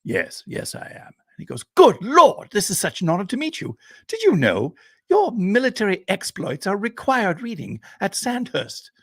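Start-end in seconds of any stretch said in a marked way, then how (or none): 0.0-1.1 put-on slow, hushed old man, voice nearly gone; a faint old field marshal answering slowly; lightly voiced aged colonel; ancient Englishman. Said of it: "the man turns very slowly and says". 1.8-8.9 put-on high, excited young officer; young man meeting his hero, high and eager; eager young Englishman.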